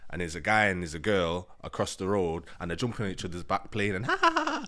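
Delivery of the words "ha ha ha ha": mock playful laughter. Mimics the couple playing.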